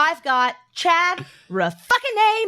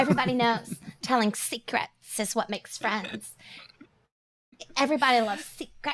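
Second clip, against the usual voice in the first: creepy voice; 2 semitones lower, 5 dB quieter than usual. Acted. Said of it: "I hate that voice".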